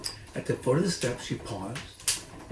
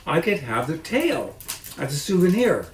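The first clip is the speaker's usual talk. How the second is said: calling up; 4 semitones higher, 6 dB louder than usual. Acted. Woman calls upstairs.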